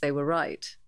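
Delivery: usual speaking voice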